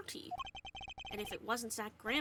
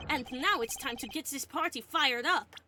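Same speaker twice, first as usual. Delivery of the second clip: hype announcer; 5 dB louder than usual. Acted. Announcer-style hype line.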